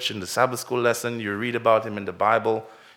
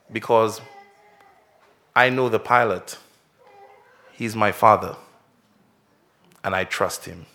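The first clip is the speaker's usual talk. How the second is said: calm; 3 semitones lower than usual. Acted. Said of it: "And very calmly".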